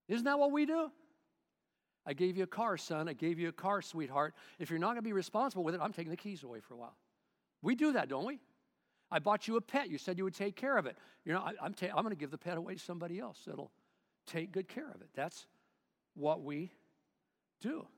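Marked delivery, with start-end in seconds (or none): 2.0-6.9 a hint of a scolding parent, quick at the end; stern parent. Parent voiced scolding child. 9.1-15.1 a touch of a scolding parent, louder; stern parent. Acted. Parent voiced scolding child.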